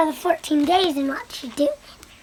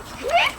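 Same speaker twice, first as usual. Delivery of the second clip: short, high rising "hmm"; reacting hum; 10 semitones higher than usual. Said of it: "she's like".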